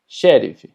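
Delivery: Sheriff starting on a long sh; Portuguese X. Shown as a demonstration. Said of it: "Tenemos sheriff".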